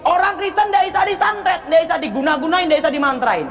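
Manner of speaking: high-pitched, emphatic pulpit declaration; Gilbert preaching. Retold or imitated. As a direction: imitate a preacher proclaiming from the pulpit. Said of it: "Tiba-tiba Gilbert khotbah gini".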